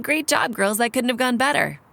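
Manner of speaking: high mock imitation of the elder's praise. Telling her friend what the elder said, mockingly. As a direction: parody his words in a sing-song. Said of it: "He said".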